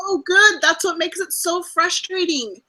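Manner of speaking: high, loud and eager gushing; excited gushing. Real, not acted. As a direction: gush over the on-screen couple. Gushing about the couple.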